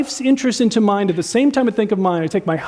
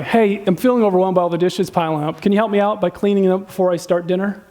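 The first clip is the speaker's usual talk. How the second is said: calm request. Acted. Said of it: "Masters do it this way".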